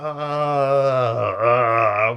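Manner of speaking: long, loud "aah" sliding down; loud exasperated groan. Retold or imitated. Reacting to being shouted at, loud exasperated groan.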